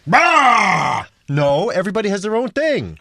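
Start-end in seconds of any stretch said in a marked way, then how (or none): 0.1-1.1 a loud, higher mock roar; mock rage roar. Acting out a fan who rages over sports, a loud mock roar. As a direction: roar like an enraged hooligan.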